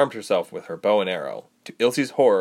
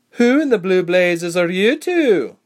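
loud, high, drawn-out demand; blustering, incredulous question; brusque challenge; 10 semitones higher, 8 dB louder, slower than usual. A narrator's reading. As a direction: challenge two strangers with rough bluster. Armed woman challenging two strangers.

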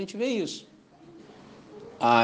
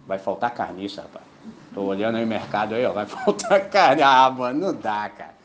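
anxious vulture; 7 semitones lower than usual. Pretend.

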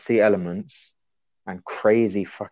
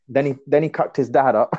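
laughing; 4 semitones higher than usual. Real, not acted. Laughing at own joke.

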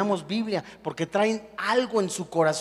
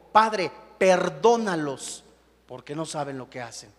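forgive them gently, almost breaking off; tender plea; 5 semitones lower than usual. Acted. Quoting Jesus on the cross.

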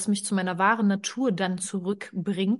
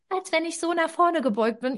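hunched forward; 8 semitones higher than usual. Shown as a demonstration. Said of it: "aber ich mache jetzt alles nach".

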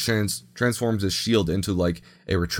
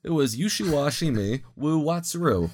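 fake Japanese; 6 semitones higher than usual. Real, not acted. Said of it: "That sounded like fake Japanese".

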